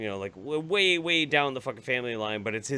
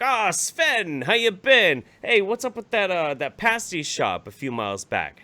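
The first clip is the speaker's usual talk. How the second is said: cheerful greeting; 8 semitones higher, 5 dB louder than usual. Retold or imitated. Narrator greeting uncle cheerfully.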